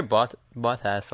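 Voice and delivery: Bottas with open "baht" start; attempted British pronunciation. Shown as a demonstration. American attempting the British way, halting Bottas as baht-ass. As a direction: try Bottas as "baht-ass", stumbling once. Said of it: "I can't say that".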